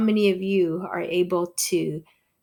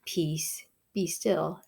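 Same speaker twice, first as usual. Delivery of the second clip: calm and soft; 3 dB quieter, slower than usual. Retold or imitated. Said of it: "all he has to do is just calmly say".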